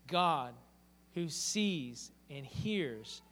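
ordinary talk

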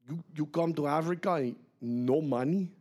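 put-on halting disbelief in a Malian accent; puzzled Malian man, imitated; imitated West African English. Retold local man's incredulous question.

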